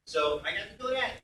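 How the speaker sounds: ordinary talk, nothing marked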